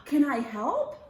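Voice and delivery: very high, loud and thrilled; excited friend begs to help; excited squeal. Acted. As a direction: burst with excitement.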